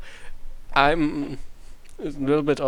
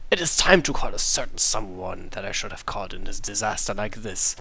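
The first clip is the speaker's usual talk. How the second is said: lightly voiced; 4 semitones lower than usual. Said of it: "I just do whatever voice".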